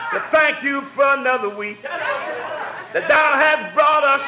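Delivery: chanted preacher's prayer; praying. Acted. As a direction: pray it out in rolling cadence. Pastor leads chanted prayer.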